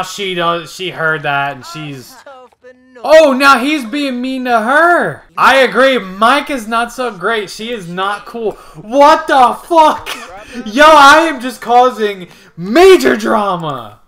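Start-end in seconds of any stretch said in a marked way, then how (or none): 3.0-14.0 gossipy character voice. Pretend. Voicing game characters gossiping.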